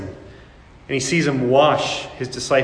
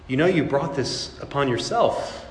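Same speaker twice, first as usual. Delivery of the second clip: softer inner judgement; muttered thought; 7 dB quieter than usual. Retold or imitated. The hidden thought about a sufferer, softer mutter. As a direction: mutter it under your breath.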